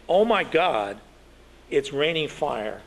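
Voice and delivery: reading the invented quote as a mild mock scream. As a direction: play the terrified witness lightly. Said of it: "screamed an unidentified Italian woman".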